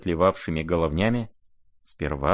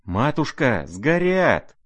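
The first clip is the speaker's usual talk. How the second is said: wailing; 7 semitones higher, slower than usual. Acted. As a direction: howl in despair over the money. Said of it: "вопил Лебедев".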